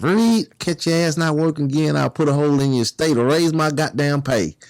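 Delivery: a hint of a menacing guard; guard's threat.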